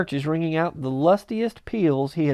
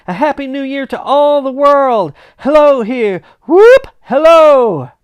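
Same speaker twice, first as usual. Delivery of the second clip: higher and louder, building to a whooping shout; giddy shouting; 6 semitones higher, 8 dB louder than usual. Acted. Scrooge dancing alone, whooping to the world. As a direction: burst out in joy.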